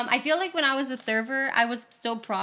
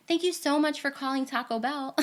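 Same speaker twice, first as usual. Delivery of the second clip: phone greeting; 5 semitones higher than usual. Retold or imitated. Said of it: "I answer every day".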